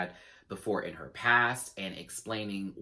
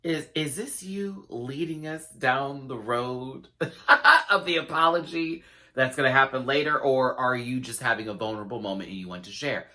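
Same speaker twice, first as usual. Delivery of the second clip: skeptical; 3 semitones higher, 4 dB louder than usual. Retold or imitated. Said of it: "I said".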